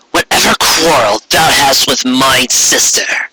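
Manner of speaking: slow, stately archaic royal voice; regal alicorn queen. Acted. Corona addressing Trixie, slow and stately. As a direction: speak like an imperious queen granting favor.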